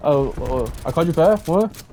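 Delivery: mock flustered, rising in fake disbelief; sheepish mock innocence; cowering denial. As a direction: play the startled coward caught out. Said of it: "how he just, like, cowers away".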